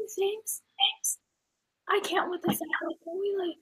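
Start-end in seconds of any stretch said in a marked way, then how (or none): 1.9-3.6 frustrated whisper. Real, not acted. Frustrated by echo.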